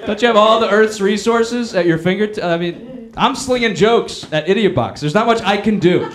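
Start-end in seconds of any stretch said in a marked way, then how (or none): 0.0-2.4 scoffing at the president, mock disbelief; mock incredulous. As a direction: play it like a shocked friend.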